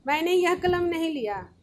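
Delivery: mock insisting, pushing the claim hard; a teacher playing someone who presses the point; forceful insistence. Shown as a demonstration. Teacher acting out a pushy accuser for the class, forcefully insisting. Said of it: "तो मैं ज़बरदस्ती कह रहा, बल दे करके".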